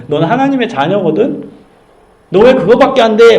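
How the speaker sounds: a warm nudge, stressing 왜 lightly; encouraging challenge. Retold or imitated. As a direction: remind them who they are. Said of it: "막 혼내는 게 아니라 정체성을 불어넣어주는 거예요".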